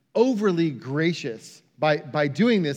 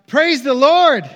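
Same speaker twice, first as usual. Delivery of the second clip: joyful shout; 7 semitones higher, 9 dB louder than usual. Retold or imitated. Elderly lady proclaiming her faith from the front porch, joyful shout. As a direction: shout it high and loud. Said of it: "she would shout".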